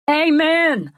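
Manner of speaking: high, loud shout of amen; yelled amen. A narrator's reading. Worshipper behind narrator yells to preacher, high and loud. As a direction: call it out from the crowd. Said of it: "a voice just behind me yells out".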